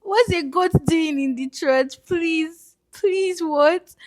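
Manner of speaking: high and loud, incredulous; shocked. Retold or imitated. Vlogger retelling seeing a goat in church, high and shocked. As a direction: react as if you can't believe your eyes. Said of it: "I was like".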